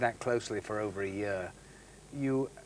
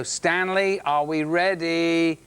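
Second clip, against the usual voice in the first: calling out; 4 semitones higher, 4 dB louder, much slower than usual. Retold or imitated. Waiting in a wet suit, calling.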